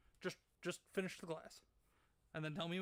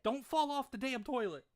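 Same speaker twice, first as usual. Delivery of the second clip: higher, louder call across the house; 7 semitones higher, 6 dB louder than usual. Real, not acted. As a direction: shout warning from the other room. Calling to wife in bathroom.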